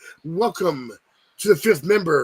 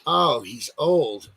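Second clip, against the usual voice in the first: slow, lower mocking drawl; mock bystander; 6 semitones lower, much slower than usual. Host mocking how people excuse old men, slow and low. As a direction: drop the voice and let it sag dismissively. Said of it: "everyone's like".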